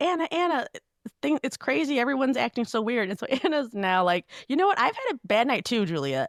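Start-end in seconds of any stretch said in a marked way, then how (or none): 0.0-3.1 high, frantic, panicked screaming. Recounting a call from someone freaking out in the streets; imitating someone screaming. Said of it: "And she's just like screaming".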